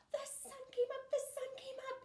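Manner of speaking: very high, loud squirrel chirp; high squeaky squirrel voice. Acted. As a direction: sing it out like an excited little squirrel. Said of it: "he chirped".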